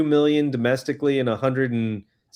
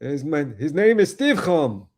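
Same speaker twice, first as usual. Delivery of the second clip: put-on hammy old Jewish man accent; 3 semitones higher than usual. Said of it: "I'm throwing in the old man Jewish accent".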